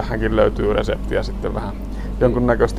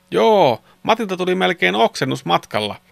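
high, loud storybook yell; loud boyish shout; 8 semitones higher than usual. A narrator's reading. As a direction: call it out like an excited boy. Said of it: "Arttu huusi kovalla äänellä". (pojan kova, korkea huudahdus)

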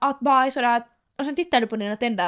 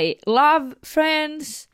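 slow announcer read of "I love Friends"; ferry announcement; much slower than usual. Pretend. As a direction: deliver it like a ship's tannoy. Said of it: "Silja-län kuulutus". (som ett fartygsutrop)

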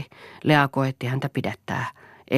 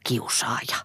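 contemptuous; 4 dB quieter than usual. A narrator's reading. Boy to the father who hit him, contemptuous. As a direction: drop the insult with contempt. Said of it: "sanoi Poju halveksien".

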